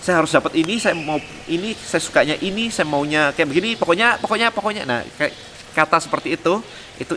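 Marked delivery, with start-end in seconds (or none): 0.0-4.8 mock demanding voice, rising higher to a high "pokoknya"; insistent self-centred client. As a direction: act out a client who keeps insisting.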